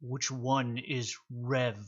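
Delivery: slow, heavy monster voice; slow creature voice. Acted. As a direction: draw it out like a looming beast. Beast repeats its question.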